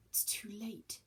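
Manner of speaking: whispered, barely voiced; quiet whisper. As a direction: breathe it out in defeat. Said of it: "she said quietly".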